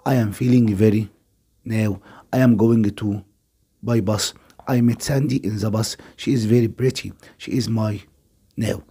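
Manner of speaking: slow, careful classroom read-aloud with pauses for the gaps; slow reading of the passage. Shown as a demonstration. Teacher reads the gap-fill text slowly to the class. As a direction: read it slowly, pausing at each blank.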